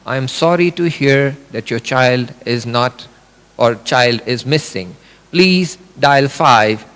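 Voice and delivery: a lightly voiced emotionless computer, dragging out the end; detached automated response; computer reply. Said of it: "then the computer would say".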